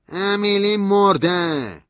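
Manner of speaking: high, loud, very slow cry; anguished outburst. A narrator's reading. Stanley blurts that Emily is dead, anguished cry. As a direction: wail the news.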